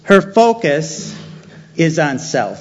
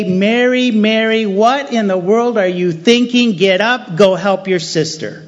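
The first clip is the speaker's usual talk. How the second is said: scolding; 5 semitones higher than usual. Pretend. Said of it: "He doesn't say".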